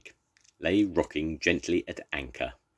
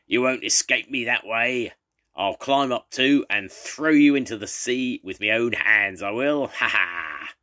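loud, higher villain shout up the mast; 5 semitones higher, 6 dB louder than usual. Acted. Jake shouting up the mast at Pugwash, loud and menacing. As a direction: threaten him from below at full voice. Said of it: "shook his great fist and shouted".

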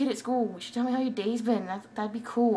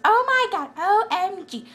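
put-on much higher, loud valley-girl gasp; generic anyone voice; 10 semitones higher, 7 dB louder, slower than usual. Shown as a demonstration. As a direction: gush it like a shocked friend. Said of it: "my generic anyone voice".

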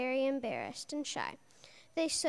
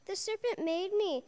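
exclaimed; 5 semitones higher than usual. Acted. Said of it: "exclaimed Eve".

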